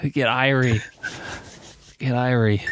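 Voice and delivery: lay-back mock reggae Jamaican accent; white boy reggae. Teasing a friend about dub band vibes, mock Jamaican accent. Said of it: "white boy reggae".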